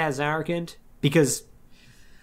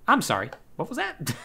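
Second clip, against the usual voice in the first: laughing disbelief; 4 semitones higher, 4 dB quieter than usual. Retold or imitated. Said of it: "and they're like".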